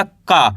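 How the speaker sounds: "का" as unaspirated k with long aa; model pronunciation. Shown as a demonstration. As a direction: teach "का" as a clear, unbreathed kaa. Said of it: "इस तरीके से इसका उच्चारण निकलेगा".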